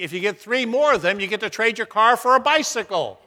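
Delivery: mock-pleasant delivery of a punchline; retold officer being very nice; very nicely. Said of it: "The officer says very nicely".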